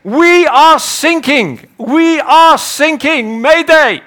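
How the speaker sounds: put-on high, loud, slowed German-accented radio call; German coast guard. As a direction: play the clueless German coast guard mishearing thinking. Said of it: "He says".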